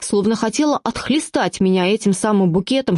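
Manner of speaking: usual speaking voice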